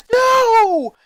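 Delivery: loud, high sudden cry of no; a frightened boy refusing his family be called; yelled no. A narrator's reading. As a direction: blurt it out in panic. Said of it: "he yelled out".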